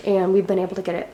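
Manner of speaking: slightly winded while talking; out of breath. Real, not acted. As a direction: speak a little short of breath. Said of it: "I'm sorry if I'm out of breath".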